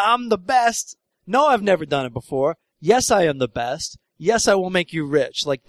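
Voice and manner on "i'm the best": mock bragging. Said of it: "and the bragging".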